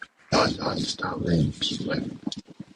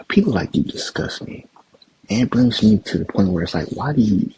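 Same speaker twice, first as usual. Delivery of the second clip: disgusted; 5 semitones higher, 5 dB louder than usual. Real, not acted. Angry rant at the pundit.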